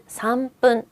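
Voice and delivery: "삼 분" as SAM-PPUN, tense P; strong pronunciation. Shown as a demonstration. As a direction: hold the M of "삼", then hit "분" as "뿐". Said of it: "이유 없이 세게 읽어요".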